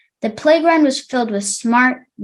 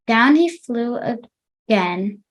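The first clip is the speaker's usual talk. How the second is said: slower reading; slower than usual. Shown as a demonstration. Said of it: "try to read slower".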